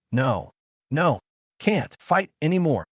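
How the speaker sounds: shaky, fearful plea; trembling voice. A narrator's reading. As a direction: voice trembling with fear. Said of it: "said with a trembling voice".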